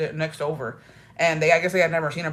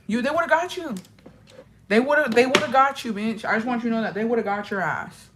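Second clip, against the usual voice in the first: higher teasing warning; 4 semitones higher than usual. Retold or imitated. Warning friend while watching.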